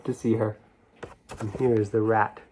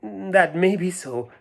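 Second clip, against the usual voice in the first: mice's voice; 3 semitones higher than usual. Acted. Mice voiced.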